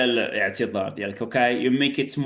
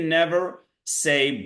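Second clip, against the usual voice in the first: "never" slow and drawn out; warning with "never" stretched; stress on NEVER; slower than usual. Shown as a demonstration. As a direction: lean hard on the word never.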